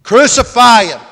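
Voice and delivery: high, forceful shout of a mob; crowd's loud outcry. A narrator's reading. Crowd overrules Pilate's offer to release him, shouting. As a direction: shout it as a crowd that will not relent. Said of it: "But they cried out".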